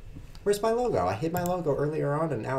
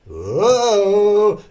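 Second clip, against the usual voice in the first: surprised whoa; 7 semitones higher, 10 dB louder than usual. Real, not acted. Sudden shout at the board.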